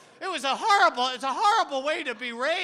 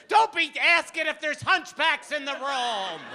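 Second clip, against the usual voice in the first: scolding mother; 2 semitones higher, 4 dB louder than usual. Retold or imitated. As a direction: play the exasperated mom lamenting. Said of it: "My mother said".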